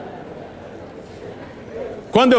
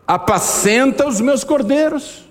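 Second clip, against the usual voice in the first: slow, higher voice of Jesus giving a command; solemn Jesus voice; 9 semitones higher, slower than usual. Acted. Preacher voicing Jesus telling Peter to feed his lambs, slow and solemn. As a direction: lay the command down gently and deliberately.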